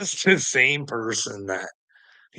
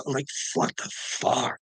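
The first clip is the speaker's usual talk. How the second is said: breathy disbelief; 4 dB quieter than usual. Real, not acted. Disbelief at a claim.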